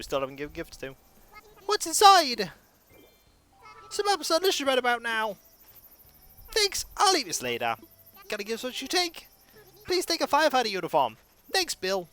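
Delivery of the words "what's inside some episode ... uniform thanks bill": villager voice. Acted. Voices game villager lines.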